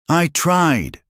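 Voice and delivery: a high, loud cry; screamed. A narrator's reading. Mother screams at Minho she tried. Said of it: "she screamed".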